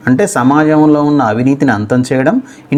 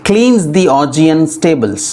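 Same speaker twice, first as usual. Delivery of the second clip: slow careful reading; 3 semitones higher, much slower than usual. Shown as a demonstration. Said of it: "ఎలా పలకాలో first చూద్దాం".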